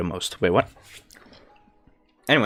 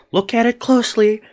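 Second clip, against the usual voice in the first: much higher teasing magician line; magician patter; 11 semitones higher than usual. Retold or imitated. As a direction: lure the child in like a stage magician. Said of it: "He's like".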